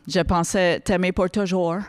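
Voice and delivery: slow French with an English accent; English speaker struggling through French verse. Shown as a demonstration. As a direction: recite it slowly in a mock English accent. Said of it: "avec un accent anglais".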